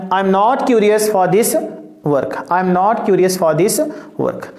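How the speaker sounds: very slow, evenly spaced English; slow repeated dictation. Shown as a demonstration. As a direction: read the answer slowly for copying. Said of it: "reads English answer slowly twice".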